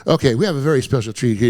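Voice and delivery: lightly voiced club MC; retold emcee patter. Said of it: "The M C goes".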